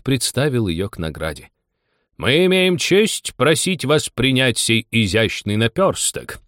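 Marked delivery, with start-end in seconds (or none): 2.2-6.4 slow, mildly pompous presentation; ceremonious speech. A narrator's reading. Dodo presenting the thimble to Anya, ceremoniously. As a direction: make a grand, slow little speech.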